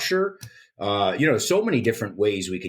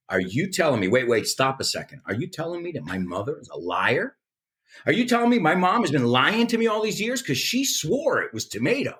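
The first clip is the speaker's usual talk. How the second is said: rising, higher mock indignation; mock outrage; 5 semitones higher than usual. American snapping back at a pedantic Brit, mock outrage. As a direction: feign offense to turn it back on them. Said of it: "I instantly go at 'em".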